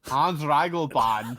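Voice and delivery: put-on laughing German accent on the name. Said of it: "We're going to do the rest of this podcast in German accents".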